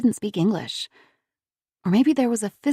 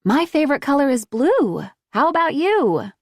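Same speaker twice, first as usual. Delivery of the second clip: put-on higher, sing-song little-child voice; childish lilt; 8 semitones higher, 4 dB louder than usual. A narrator's reading. Woman mimicking a child to coax the boy, childish lilt. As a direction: sound like a small girl asking. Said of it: "with a childish lilt to her voice".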